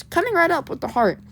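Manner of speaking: high, eager-to-serve little robot; a hint of a singsong robot waiter. Little robot takes the order.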